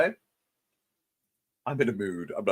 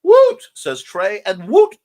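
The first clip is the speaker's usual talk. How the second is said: drawn-out cheer; 7 semitones higher, 11 dB louder, slower than usual. Acted. Cheering along with chat.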